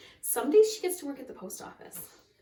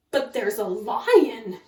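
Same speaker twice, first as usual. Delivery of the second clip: urgent alarm; 7 dB louder, slower than usual. A narrator's reading. Frightened assistant reports lion.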